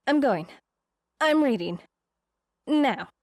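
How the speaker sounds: psyching herself up, voice climbing; nervous build-up to a squeal. Acted. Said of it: "She gave a little screech".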